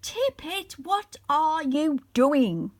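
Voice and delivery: a voiced wizard calling out, fairly loud; strange booming voice. A narrator's reading. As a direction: call down like distant thunder. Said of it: "cried the newcomer in a strange, deep voice like the rumbling of faraway thunder".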